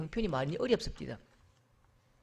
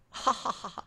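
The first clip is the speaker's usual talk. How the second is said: laughter; 3 semitones higher, slower than usual. Acted. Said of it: "깔깔거리면서".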